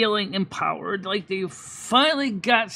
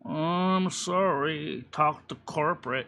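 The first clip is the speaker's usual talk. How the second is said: dismissive clerk; 3 semitones lower, 5 dB quieter, slower than usual. Retold or imitated.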